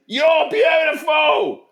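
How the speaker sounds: high, loud, drawn-out mock shout; hammed-up bellow, way up high; mock yelling. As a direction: holler it slowly like a daft declaration. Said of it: "You're just yelling it".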